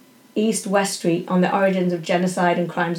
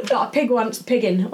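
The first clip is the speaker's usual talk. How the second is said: Yorkshire farmer; 3 semitones higher than usual. Retold or imitated. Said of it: "that's the strong Yorkshire accent".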